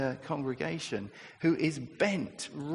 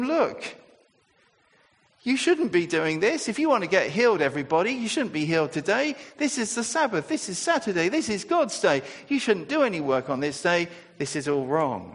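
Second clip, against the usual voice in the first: mock indignant ranting, louder and higher; 4 semitones higher, 6 dB louder than usual. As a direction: play the furious synagogue leader scolding the crowd. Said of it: "purple with rage, ranting and raving".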